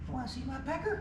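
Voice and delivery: high mock British voice, teasing; a high, hammed-up British toff asking the question; British accent. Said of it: "that's how the British say it".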